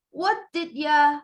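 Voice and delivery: "What did ya" with a short "ya"; reduced. Shown as a demonstration. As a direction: run "did ya" together. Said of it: "listing reductions".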